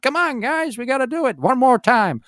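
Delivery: high-pitched American hero rallying the guys; Poe Dameron impression. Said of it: "That was quite a good impression".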